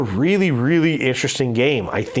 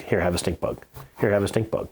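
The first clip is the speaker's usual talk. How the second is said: deadpan repeated bluff; 2 semitones lower, 5 dB quieter than usual. Retold or imitated. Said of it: "I do this thing with my wife".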